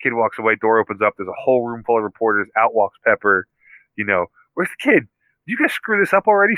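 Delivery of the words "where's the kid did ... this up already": mock yelling. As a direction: scold them like a mildly annoyed boss. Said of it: "She's yelling at the two of them".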